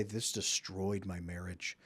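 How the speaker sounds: slow, heavy, a touch of sorrow; mild grieving testimony. Retold or imitated. Divorced wife telling of her ruined marriage, slow and sorrowful. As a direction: let the loss sink in slowly. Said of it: "from women who say".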